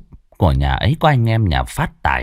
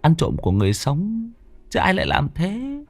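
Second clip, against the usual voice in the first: put-on higher, dismissive young thug; brushing off; 6 semitones higher, 4 dB quieter than usual. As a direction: wave the idea away. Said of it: "xua tay, gạt đi".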